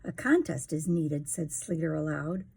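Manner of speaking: put-on lively sing-song reading to a child; rhyming story narration. A narrator's reading. Parent reading a picture book to a child, sing-song. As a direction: read the rhymes to a little one, bouncing along.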